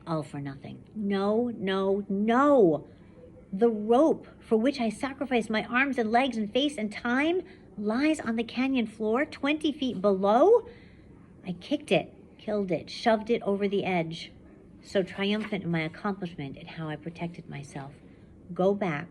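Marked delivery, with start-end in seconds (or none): 0.1-0.8 steady first-person reading to a class; story narration. A narrator's reading. Teacher reads novel aloud. 1.0-2.9 louder, rising cries of no; dismayed no. Acted. Girl sees rope is gone. 3.5-17.9 steady first-person reading to a class; story narration. A narrator's reading. Teacher reads novel aloud.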